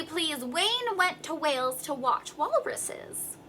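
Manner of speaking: slow, very clearly articulated tongue twister; excellent diction. Shown as a demonstration. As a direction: round each w slowly and clearly. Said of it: "Be very clear with excellent diction".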